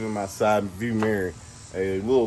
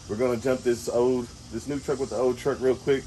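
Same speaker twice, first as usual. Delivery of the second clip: wind on mic. Real, not acted. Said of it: "I'm sorry for the wind noise in this video".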